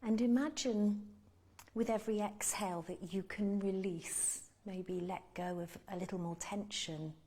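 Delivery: calm meditation guide with long pauses; unhurried guiding voice, pausing to let them breathe; guided meditation. Real, not acted. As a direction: lead them gently through body and breath, leaving space between phrases.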